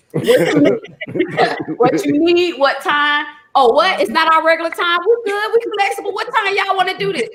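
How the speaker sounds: high, excited mock eagerness; acting out the eager yes to the booking. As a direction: play it like you'd drop everything to say yes. Acting out her eager reply.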